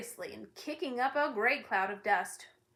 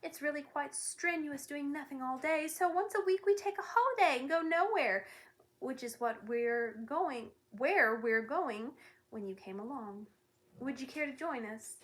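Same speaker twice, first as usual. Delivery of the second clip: conciliatory; 4 semitones higher than usual. Acted. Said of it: "in a more conciliatory tone".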